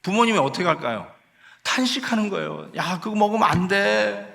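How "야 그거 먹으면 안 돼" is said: higher, urgent parental warning; worried parent scolding. Acted. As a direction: warn your child like an anxious parent. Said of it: "이런 말을 하잖아요".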